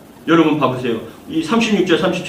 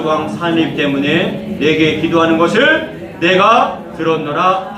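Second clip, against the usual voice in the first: slow, measured Bible reading to the congregation; slow scripture reading; 2 semitones lower, slower than usual. Acted. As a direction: read the verse slowly and solemnly. Reads scripture aloud.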